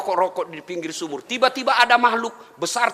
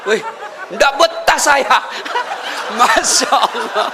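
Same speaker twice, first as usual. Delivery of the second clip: laughing lament; 3 semitones higher, 3 dB louder, slower than usual. Retold or imitated. Jinn complaining, laughing.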